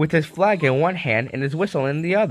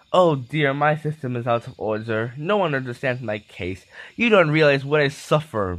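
mild moan. Acted. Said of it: "moaned Henry".

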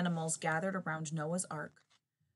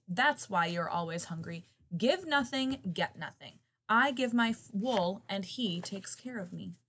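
scolding sheep; 3 dB louder than usual. Acted. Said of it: "blatted the sheep".

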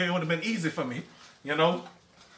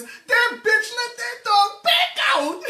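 high slow mock outrage with a laugh; imitated angry auntie; slower than usual. Auntie cursing the owner for letting the dog out, high mock outrage. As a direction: spit it out like the fed-up auntie.

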